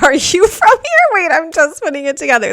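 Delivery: high, loud squeaky mock of the strangers' question; mimicking strangers. Retelling strangers on a bench, high excited mock question.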